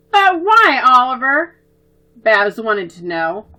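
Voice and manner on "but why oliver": high, loud pleading question; a child begging for the reason; childish protest. Acted. Babs protesting to Oliver, high and pleading.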